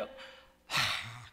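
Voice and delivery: normal talking voice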